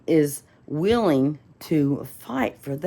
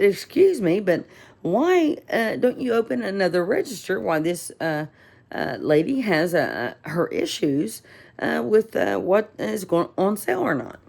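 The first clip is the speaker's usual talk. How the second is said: raised, pointed challenge to the clerk; retelling how she challenged the clerk, raised and indignant; indignant complaint; 6 semitones higher than usual. Retold or imitated. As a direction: demand answers from the clerk, voice raised. Confronting the clerk in store.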